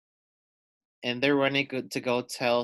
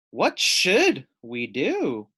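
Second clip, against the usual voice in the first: worried slow question; 4 dB louder, much slower than usual. Acted. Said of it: "asked Harry Clary".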